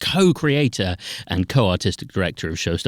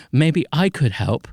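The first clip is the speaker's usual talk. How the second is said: mildly nervous voice, higher and slower; nervous child volunteer; 6 semitones higher, slower than usual. Retold or imitated. Dad voicing his daughter shyly offering help from the audience, mock-nervous. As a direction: imitate a hesitant little offer of help. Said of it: "she nervously says".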